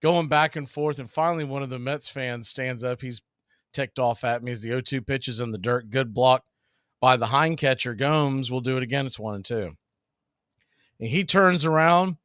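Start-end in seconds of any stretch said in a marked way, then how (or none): 3.7-9.8 steady play-by-play announcer read; play-by-play call. Acted. Announcer calling the count to the stream. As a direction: call the pitches like a broadcaster.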